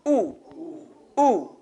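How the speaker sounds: Ooh with deliberately closed lips; rounded oo. Shown as a demonstration. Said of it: "put your lips consciously together".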